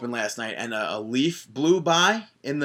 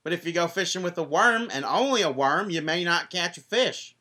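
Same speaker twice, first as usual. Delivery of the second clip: Dixie Carter impression; 5 semitones higher than usual. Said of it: "Thank you very much, Dixie Carter".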